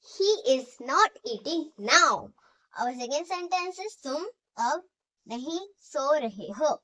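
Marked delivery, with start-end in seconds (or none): 0.1-2.3 very slow, word by word, for students to write; slow dictation. Shown as a demonstration. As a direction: spell it out slowly so the class can copy. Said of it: "dictation repeated".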